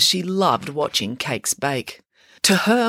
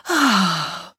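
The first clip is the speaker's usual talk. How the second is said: content sigh; 3 semitones higher than usual. A narrator's reading. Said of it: "sighed with contentment".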